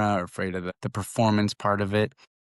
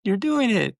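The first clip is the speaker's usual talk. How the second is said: much higher and louder cheer; excited praise; 12 semitones higher, 5 dB louder than usual. Retold or imitated. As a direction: celebrate her success out loud. Mom praising daughter's progress.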